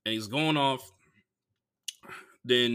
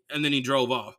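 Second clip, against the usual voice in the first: normal talking voice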